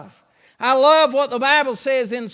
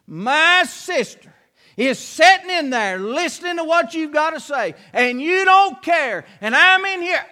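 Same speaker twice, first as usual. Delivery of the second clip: a sister fed up and letting the Lord hear it; Martha's indignant complaint; 4 semitones higher than usual. Acted. Martha protesting to the Lord about her idle sister, rising indignation.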